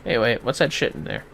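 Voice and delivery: ordinary delivery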